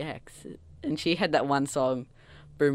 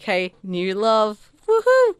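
drawn-out greeting into a high, loud whoop; imitated giddy star; 6 semitones higher, 8 dB louder, slower than usual. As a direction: celebrate a new romance as the star. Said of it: "she's just like".

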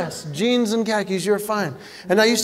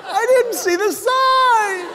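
high, wailing mock panic; hammed-up shrieking alarm; panicked driver; 13 semitones higher, slower than usual. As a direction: scream it like a terrified driver, drawing out the words. Acts a panicked driver at tunnel.

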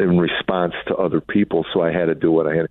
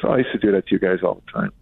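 quick, offhand, like it's nothing; father casually admitting he spanked his kids, matter-of-fact; faster than usual. Retold or imitated. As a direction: toss it off as if it were no big deal. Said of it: "he said it so matter-of-factly".

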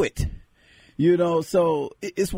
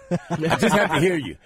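usual speaking voice

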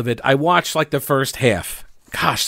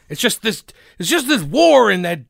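movie quote; 6 semitones higher than usual. Retold or imitated. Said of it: "Is that the line? ... Forrest Gump".

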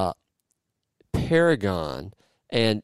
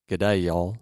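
mock Australian accent. Shown as a demonstration. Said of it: "I don't know what kind of accent that was".

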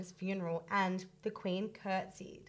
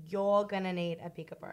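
"You're" marked as the corrected word; "You're" given the main weight; stress on YOU'RE; 2 semitones lower than usual. Shown as a demonstration. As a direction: correct the quote, leaning on "You're". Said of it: "the actual line is".

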